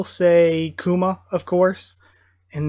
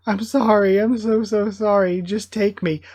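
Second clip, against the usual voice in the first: pleading apology; 3 semitones higher than usual. Acted. Voicing father pleading with agents.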